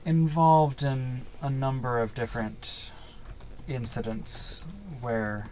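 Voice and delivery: slow, measured informant with long pauses; unhurried in-character briefing; game master in character. Acted. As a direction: tell it gravely, pausing between phrases.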